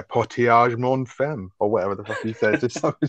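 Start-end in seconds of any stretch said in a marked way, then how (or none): 0.0-1.5 mock French. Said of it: "you speak a bit of French".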